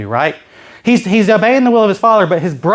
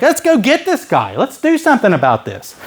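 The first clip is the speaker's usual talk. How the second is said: eager, pitched up at the start; rally them, acting raring to go; acted fighting eagerness; fired up; 5 semitones higher than usual. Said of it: "getting fired up".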